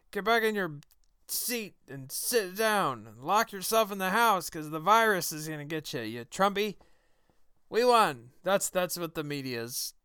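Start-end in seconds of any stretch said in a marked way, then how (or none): 0.1-8.3 lightly raised, slowed mock Plinkett voice, sarcastic cheer; Mister Plinkett impression. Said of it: "attempt at a Mister Plinkett voice".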